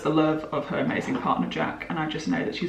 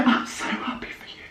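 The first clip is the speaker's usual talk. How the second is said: imitating crying. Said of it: "voice noting her crying".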